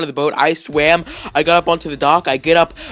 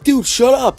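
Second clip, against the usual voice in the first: exasperated cousin; 10 semitones higher, 6 dB louder, slower than usual. Retold or imitated. Cousin snaps at the screaming.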